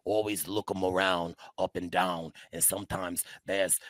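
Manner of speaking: put-on low, deep Canadian accent; C T impression. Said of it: "What is this accent?".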